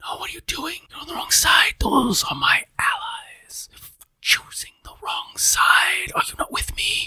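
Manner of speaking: quiet, private whisper. Running a game, the speaker voices Zotalaha whispering to a player. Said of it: "Zotalaha whispers to you and says".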